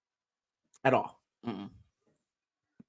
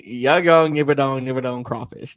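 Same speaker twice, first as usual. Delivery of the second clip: mock Louisiana accent; 4 dB louder than usual. Shown as a demonstration. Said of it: "That's all you need to know".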